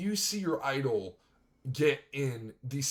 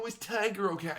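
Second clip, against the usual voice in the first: higher, whiny mock sympathy; mocking concern; 5 semitones higher than usual. Commentator mocking people who pity Tiger, whiny and sarcastic. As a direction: parody the fussing crowd's worried tone. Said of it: "everyone just wants to go".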